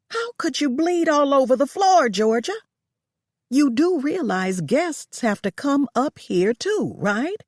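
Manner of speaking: a hint of an indignant employer; lightly voiced irritated boss.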